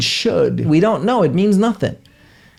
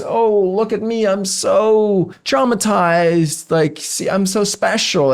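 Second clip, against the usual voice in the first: mocking, drawn-out whiny self-pity; 3 semitones higher, slower than usual. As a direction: lay the poor-me act on thick. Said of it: "a way that we get significance".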